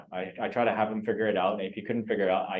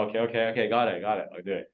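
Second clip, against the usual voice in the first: dismissive brush-off; faster than usual. Retold or imitated. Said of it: "If you do that with the seller".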